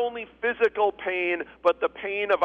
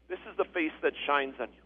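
soft, low quoted blessing; hushed, lowered delivery of a benediction; quiet blessing; 5 semitones lower, 8 dB quieter than usual. Acted. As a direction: say it gently, lower and softer. Blessing quoted softly, then repeated stronger.

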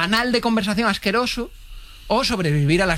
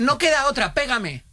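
mock panicked plea; 8 semitones higher, slower than usual. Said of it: "un ataque de pánico máximo".

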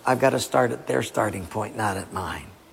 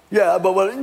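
grumbling people; 4 semitones higher than usual. Acted. Grumbling people answer Moses.

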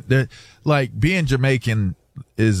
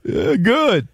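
high-pitched, drawn-out Jamaican patois; Jamaican dialect; 11 semitones higher, slower than usual. Retold or imitated. Acting out chat with a pilot, exaggerated Jamaican accent. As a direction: put on a sing-out Jamaican accent. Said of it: "speak Jamaican".

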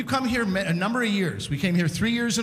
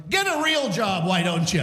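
heckler's jeer. Retold or imitated. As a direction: imitate a passer-by jeering at someone. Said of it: "getting heckled at three P M".

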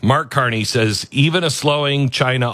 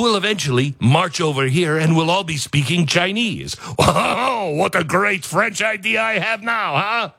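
sneering, half-crying mock of a prime minister; mocking whiny politician; 3 semitones higher than usual. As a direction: ham up a self-pitying leader, tearful near the end. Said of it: "it was much more like".

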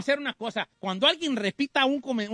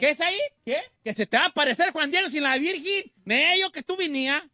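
playful, raised-voice threat; mock fighting challenge; 5 semitones higher than usual. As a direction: goad them into a fight, half joking. Host relays a fight challenge.

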